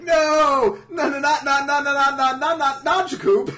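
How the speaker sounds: high, loud rattled-off cries; mock horrified shout. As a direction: shout a hammed-up string of protests. Everyone cries out in mock horror.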